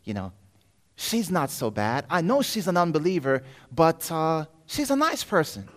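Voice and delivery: lightly voiced devil; tempting devil. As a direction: coax him like a smooth tempter. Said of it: "He says".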